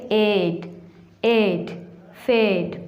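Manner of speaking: एड, एड, फेड with long "ay" vowels; long A sound. Shown as a demonstration. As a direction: stretch एड to "ayd", then फेड to "fayd". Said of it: "ए लंबी आवाज़ देता है".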